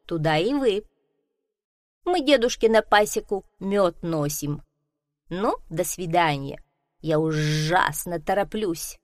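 a hint of a bustling bee. Bee speaks hurriedly. (слегка озвученная деловитая пчела)

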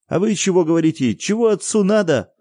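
put-on high, loud, fast boy's demand. A narrator's reading. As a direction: press them like an indignant child. Boy questioning parents.

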